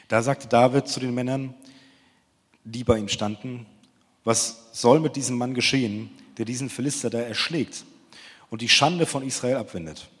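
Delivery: measured, solemn scripture reading; Bible reading. Acted. Youth pastor reads the Bible story to the group, solemn reading voice. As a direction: read the verses like a lector before the sermon.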